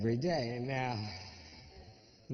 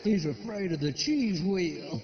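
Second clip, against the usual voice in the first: laughing; 7 semitones higher, 6 dB louder than usual. Real, not acted. Laughing punchline aside.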